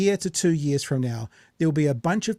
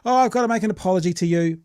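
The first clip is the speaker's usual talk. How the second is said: bright and bubbly; 3 semitones higher, faster than usual. Retold or imitated. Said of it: "he's quite bright and bubbly".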